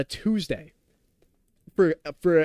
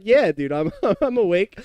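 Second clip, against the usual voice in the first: louder, laughing through it; laughing reply; 4 semitones higher, 6 dB louder than usual. Retold or imitated. Streamer retelling his fake-casual answer, laughing as he says it. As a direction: chuckle out the denial. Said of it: "I was like".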